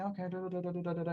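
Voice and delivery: soft, level run of placeholder syllables; read in one's head. Retold or imitated. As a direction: murmur it as if skimming silently. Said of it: "in your head, right?".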